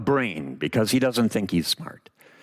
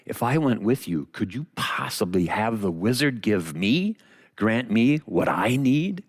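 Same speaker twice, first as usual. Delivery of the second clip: hopeful lion. Acted. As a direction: ask timidly, with growing hope. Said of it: "has a moment of hope and says".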